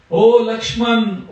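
drawn-out high call across the forest; a demon faking a husband's cry for help, high and slow; calling out in Ram's voice. Acted. Demon mimicking Ram, calling Lakshman in a long high cry. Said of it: "he shouted very loudly in Ram's voice".

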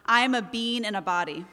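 "being" squashed into "bean", Jersey style; light Jersey slip on "bean"; Jersey accent. Retold or imitated. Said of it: "my Jersey accent came out".

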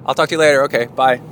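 high, loud pretend-dog voice; Kona's fake voice. Wife as the dog ending the phone call, high fake voice. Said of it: "we do this fake voice for Kona".

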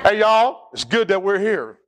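folksy Southern "y'all" delivery; put-on Southern twang; Southern accent. Shown as a demonstration. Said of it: "get a lot of Southern accent into it".

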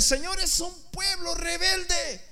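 high, slow, drawn-out complaint; prophet's wearied protest; exasperated cry. Acted. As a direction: cry it up to the Lord. Acts Jeremiah complaining to the Lord.

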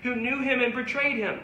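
rising, insistent pulpit preaching; fervent sermon delivery. Acted. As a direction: preach it to the pews, building on each call. Preaching to the congregation.

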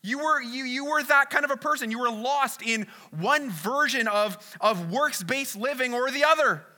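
voicing Paul's frustrated appeal, lightly acted; Paul pleading. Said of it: "he's like".

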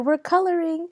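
high-pitched imitated announcement; excited reveal. Wife telling confused husband about outing, excited reveal. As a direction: imitate a wife's eager reveal.

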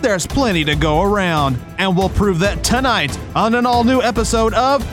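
booming TV promo announcer; dramatic reality show hype. Acted. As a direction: sell it like a cable TV trailer.

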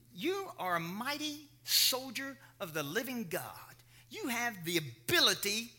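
slow, half-whispered affirmation; hushed assurance. Acted. God telling Gideon who he is, hushed and deliberate. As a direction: let it sink in, hushed and deliberate.

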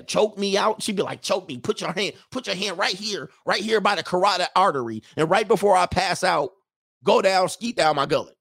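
lightly voiced demanding lover; eager woman, imitated.

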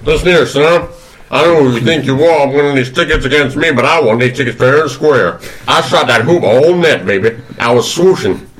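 lightly voiced Southern gentleman; Colonel Sanders. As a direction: try on a folksy Kentucky colonel. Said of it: "who is Colonel Sanders".

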